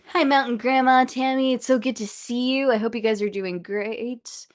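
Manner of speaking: nervous shaky voice; shaking voice. Real, not acted. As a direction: voice trembling with nerves. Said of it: "my voice is shaking so much".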